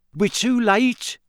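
high, slow witch voice; resigned witch. A narrator's reading. Witch in dressing gown giving up the chase, high slow voice. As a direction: declare it hopeless, drawn out. Witch despairing that culprit escaped.

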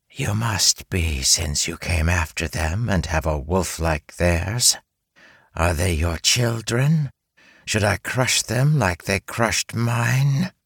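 menacing spider queen, slow; hissing creature threat; giant spider voice. Acted. Spider speaks, held voice.

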